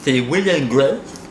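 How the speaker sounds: words blurred by tongue sticking out. Real, not acted. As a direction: answer with tongue hanging out. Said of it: "Tu dois répondre comme ça".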